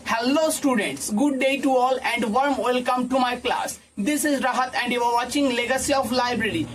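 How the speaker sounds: slow, even and assured greeting to the class; confident introduction. Shown as a demonstration. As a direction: introduce yourself like you own the room. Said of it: "সে কেমন ভাবে দেবো".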